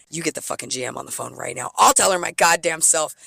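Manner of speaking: mock furious demand, half spoken; retold angry order to the bar manager. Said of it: "I'm yelling. I'm mad".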